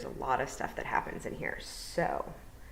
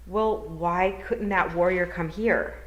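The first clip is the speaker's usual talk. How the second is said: put-on higher, puzzled girl's voice; young girl Tiffany; 3 semitones higher, 4 dB louder, slower than usual. Tiffany asking the toad, higher puzzled girl voice.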